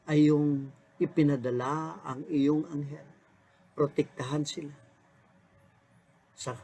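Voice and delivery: earnest, hushed pastoral prayer; closing prayer. Acted. Pastor leading listeners in morning prayer, hushed and earnest.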